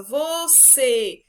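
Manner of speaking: VOCÊ drawn out, lingering on CÊ; stretched VOCÊ with a long, falling CÊ; stress on CÊ. Shown as a demonstration. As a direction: call "você" slowly, holding the last syllable. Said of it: "permaneceu mais no tom da minha voz".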